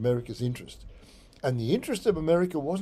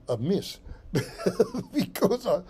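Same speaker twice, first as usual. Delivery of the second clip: amused laugh; 3 semitones higher than usual. Real, not acted. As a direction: laugh off skipping the topic. Laughs at cutting topic short.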